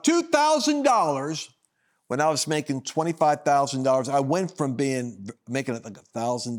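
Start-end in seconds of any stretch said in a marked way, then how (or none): 0.0-1.5 high, slow stunned repeat; shocked disbelief. Retold or imitated. Retelling the garage's quote with stunned disbelief. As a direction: let the price hit you.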